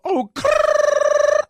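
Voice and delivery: high, trilled mock-hip exclamations; hammed-up, high-pitched youth-slang act; imitating slang-spouting presenters. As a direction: roll a long trill, then punch out slang words. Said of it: "I see them go".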